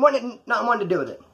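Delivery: stumbling over the words; tripping on the words; stutter. Real, not acted. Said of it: "I'm even stuttering now".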